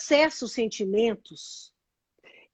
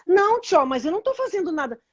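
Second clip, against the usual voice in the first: higher, mock-defensive denial; defensive protest; 5 semitones higher than usual. Acting Kika answering back to her friend, defensive. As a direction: protest your innocence in a raised pitch. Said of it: "Aí você fala assim".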